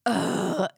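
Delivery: exasperated groan; a fed-up ugh; annoyed ugh. Retold or imitated. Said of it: "We live to make that sound".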